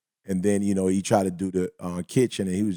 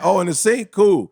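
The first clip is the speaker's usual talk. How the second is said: naive mock surprise; 8 semitones higher, 4 dB louder than usual. Retold naive reply.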